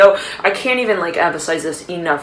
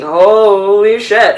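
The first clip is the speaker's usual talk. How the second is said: slow, drawn-out "holy shit", a bit louder; stunned thought; 2 semitones higher, 6 dB louder, much slower than usual. Retold or imitated. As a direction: let it sink in, slow and stunned. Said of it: "you're almost thinking".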